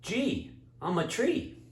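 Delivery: talking tree. Acted. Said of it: "the big tree says".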